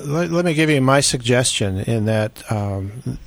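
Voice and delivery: muffled voice on a bad mic; muffled, as if through a hand. Real, not acted. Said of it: "you sound very, um, muffled".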